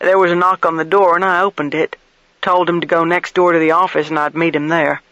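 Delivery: lightly voiced, talkative motel keeper; folksy motel keeper. Motel keeper tells investigator about the guest, lightly voiced folksy recollection. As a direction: recall the guest with a touch of insistence.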